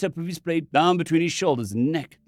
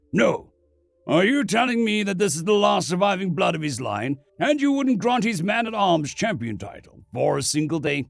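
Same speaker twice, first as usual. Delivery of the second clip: angry; 5 semitones higher than usual. Acted. Bannerman protests angrily.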